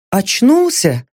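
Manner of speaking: relieved. A narrator's reading. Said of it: "слышалось облегчение".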